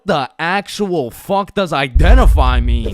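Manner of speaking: mock outraged kid. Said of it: "so I'm like".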